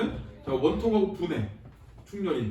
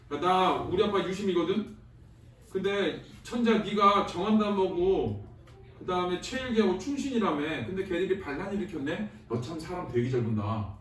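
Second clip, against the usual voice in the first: sarcastic paraphrase. Retold or imitated. Teacher voicing Chungryeol mocking the emperor, sarcastic. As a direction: needle the emperor in modern talk. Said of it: "이런 거야".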